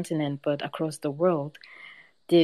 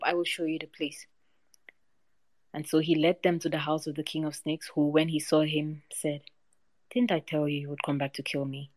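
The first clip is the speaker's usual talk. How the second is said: even storyteller reading, figures lightly voiced; story narration. A narrator's reading. Storyteller reading a folk tale to a discussion group, calm narration. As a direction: read the tale to a listening group.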